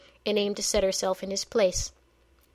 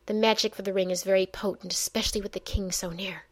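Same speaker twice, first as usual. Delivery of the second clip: fast, through gritted teeth; faster than usual. Acted. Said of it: "the old mage said through gritted teeth".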